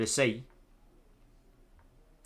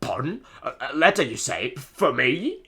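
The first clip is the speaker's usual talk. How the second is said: put-on British accent; 4 semitones higher, 4 dB louder than usual. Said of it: "my awful British accent".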